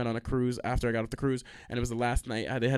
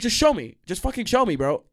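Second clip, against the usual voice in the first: mock angry demand; 8 semitones higher, 5 dB louder than usual.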